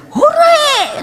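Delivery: very high, drawn-out hooray; gleeful cheer. Retold or imitated. Grandchild freed from lessons, imitated gleeful cheer. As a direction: imitate a child's delighted whoop. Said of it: "seneng sekali".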